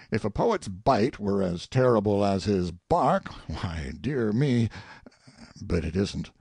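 theatrical soliloquy with swings in pitch; lightly acted monarch talking to himself; musing king. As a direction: savour and mock the verse like a critic. King's soliloquy continues.

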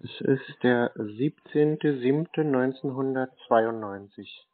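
slow, deliberate date dictation; spelling out a birth date for a caller. Real, not acted. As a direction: read the date out slowly, number by number. Scam call, dictating birth date.

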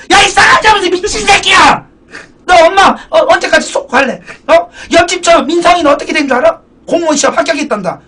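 shrieking mom. Acted. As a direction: scream at your son like a furious mom. Acted mother scolding jobless son.

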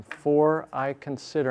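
FOR drawn out and leaned on; stress on FOR. Shown as a demonstration. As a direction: put the weight on the first word, For. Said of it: "emphasize a new word each time".

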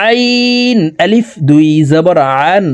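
long "আইন" squeezed from mid-throat; pressed throat Ayn. Shown as a demonstration. Teacher demonstrates Ayn to viewers, pressed from mid-throat. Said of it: "হলকের মধ্যখান থেকে চাপ দিয়ে".

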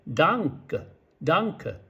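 ダンケ with the final ケ almost swallowed, like ダンク; German ダンケ. Shown as a demonstration. Teacher showing how Germans say ダンケ. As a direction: hit ダン and barely voice the ending of ダンク. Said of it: "ケは弱くなって".

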